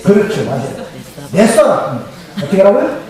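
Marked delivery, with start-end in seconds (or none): 1.3-2.0 a touch of Jeolla dialect; demonstrated Jeolla regional word. Shown as a demonstration. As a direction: say it as a Jeolla local would. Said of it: "전라도 사투리 뭐예요?".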